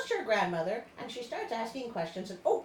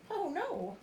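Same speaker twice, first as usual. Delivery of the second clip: mock alarm; 7 semitones higher than usual. Real, not acted. Reacting to shipwreck in story.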